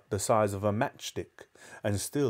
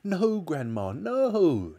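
put-on high, urgent boy's protest; crying out; 8 semitones higher, much slower than usual. A narrator's reading. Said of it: "George cried".

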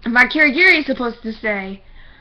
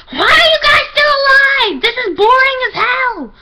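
high, slow cartoon bear voice; squeaky taunting mascot bear; Monokuma voice; 14 semitones higher, 6 dB louder, slower than usual.

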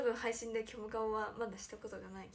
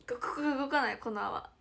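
usual speaking voice

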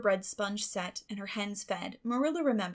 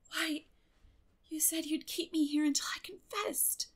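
weary; 7 semitones higher, 4 dB quieter than usual. Acted. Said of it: "returned Anne wearily".

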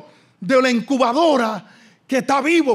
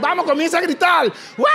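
urging shout; 4 semitones higher than usual. Real, not acted.

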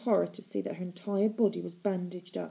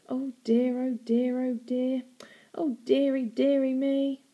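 high, whispered fake pity; mock pity; 5 semitones higher than usual. A narrator's reading. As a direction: fake sympathy. Mock sympathy.

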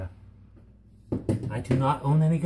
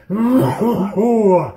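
Goofy laugh; 2 semitones higher, 5 dB louder than usual. Acted. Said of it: "I sound like Goofy".

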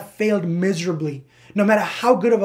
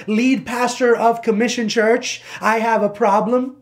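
louder, higher mock-official address; imitating an overly formal request; mock formality; 4 semitones higher, 4 dB louder than usual. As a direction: announce the full title with exaggerated formality. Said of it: "There's no formality involved with that".

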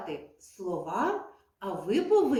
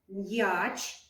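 short word said quickly; 2 semitones lower, 4 dB quieter than usual. Shown as a demonstration. Teacher saying a short word quickly to children. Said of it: "я промовила дуже швидко".

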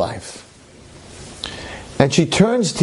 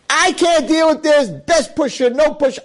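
despairing; 13 semitones higher than usual. Acted. Yankel in despair.

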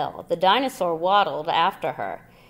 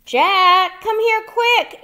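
high, loud urgent call; 14 semitones higher, 9 dB louder, slower than usual. A narrator's reading. Annie calling Jack up the hill, high and urgent. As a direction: call him over fast. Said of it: "Annie called".

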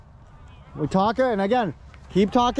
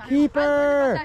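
voice of command. Shown as a demonstration. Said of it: "It's from the diaphragm".

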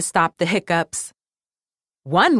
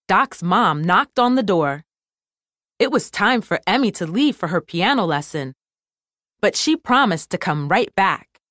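ordinary delivery

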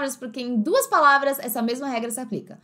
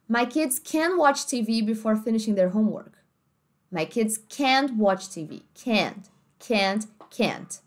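American accent; slower than usual. Shown as a demonstration. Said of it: "Uma família americana ia dizer assim".

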